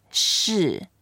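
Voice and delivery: 是 with a falling tone; fourth tone. Shown as a demonstration. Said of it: "It's fourth tone going down".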